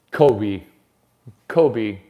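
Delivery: loud emphatic call of Kobe. Acted. Comic calling out his friend Kobe, loud.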